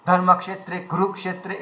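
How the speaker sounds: ধর্মক্ষেত্রে কুরুক্ষেত্রে pushed out syllable by syllable; wrong way: jolting syllables; jerky pushing delivery. Shown as a demonstration. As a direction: shove each syllable out. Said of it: "ধাক্কা দিয়ে দিয়ে বলা".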